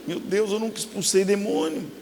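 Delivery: softly retold dread; hushed, mock-frightened confession; retold trembling fear. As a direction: say it small, as if scared. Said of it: "eu tremi".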